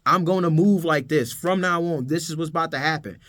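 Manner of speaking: deliberate, emphatic self-affirmation; firm declaration. Acted. Coach models speaking a goal into existence, firm declaration. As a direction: speak it into existence, measured and resolute. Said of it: "change the way you speak, you're speaking it".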